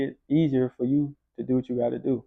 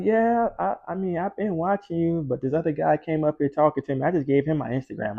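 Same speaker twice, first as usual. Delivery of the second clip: put-on light higher girlish voice, lightly done; girl's voice; 3 semitones higher than usual. Gym girl telling Evan she waited, lightly higher.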